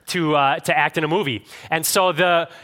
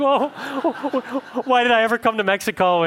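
hammed-up laughing wail, much higher; mock weeping; 8 semitones higher than usual. Stranded actors wail about coming to Mexico, mock weeping. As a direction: fake a comic sob that breaks into a laugh. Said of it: "they all start weeping".

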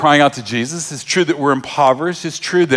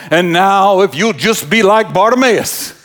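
raised, hammed-up pulpit cadence; mock preacher; 5 semitones higher, 4 dB louder than usual. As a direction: briefly put the preacher act back on. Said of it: "Mark doesn't go".

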